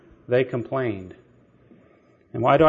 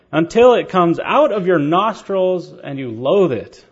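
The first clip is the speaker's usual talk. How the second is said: rising stern proclamation; 4 semitones higher, 4 dB louder than usual. Retold or imitated. Quoting God's judgment.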